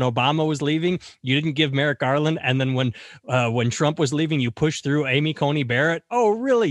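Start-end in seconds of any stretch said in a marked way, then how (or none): 6.1-6.7 sarcastic. Real, not acted. Sarcastic retort to Cruz.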